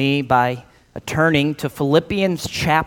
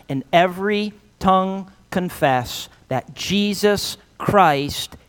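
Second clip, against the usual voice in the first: solemn scripture reading. Acted. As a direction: read scripture aloud reverently, letting key phrases swell and settle.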